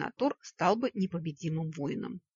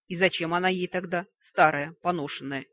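venomous smirk; 7 dB louder than usual. Acted. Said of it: "ядовито ухмыльнулся Вик".

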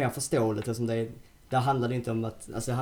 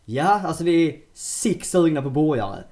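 eager hungry plea; 5 semitones higher, 8 dB louder, slower than usual. Retold or imitated. Voicing themselves at restaurant.

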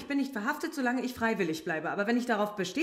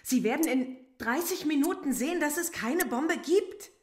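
indignant demand; 4 semitones higher than usual. Acted. Suspect demands police arrest her or let her go, indignant. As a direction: demand release with mounting force. Suspect insists she be released.

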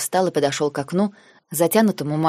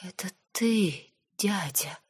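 softer, slow, half-whispered disbelief; stunned near-whisper; 3 semitones higher, 9 dB quieter, slower than usual. A narrator's reading. Girl realising her uncle did it, hushed disbelief. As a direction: let the shock steal her voice.

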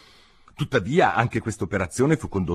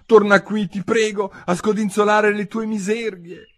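high-pitched call; high, urgent shout that starts loud; calling after someone; 12 semitones higher, 4 dB louder than usual. A narrator's reading. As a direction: call out to someone walking away. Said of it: "gli gridò dietro Alice".

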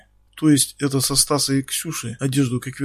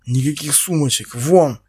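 a louder, boss-like bark on Вон; barked order; 4 dB louder than usual. Acted. Слепцов рявкает на Ксюшу, как большой босс. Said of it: "рявкнул Слепцов".

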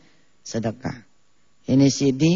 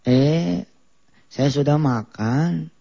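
put-on slow Sundanese accent with a leading eh; much slower than usual. Preacher imitating a Sundanese teacher's reading, Sundanese accent. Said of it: "yang ngajarin orang Sunda".

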